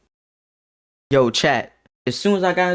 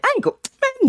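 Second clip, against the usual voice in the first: high yelp; faster than usual. Retold or imitated.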